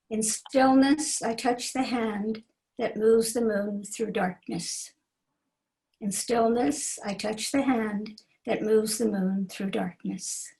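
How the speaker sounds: slow, measured poetry recitation; poem reading. Acted. Poet reading a favorite short poem aloud, slow recital. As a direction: recite it slowly, letting each phrase stand.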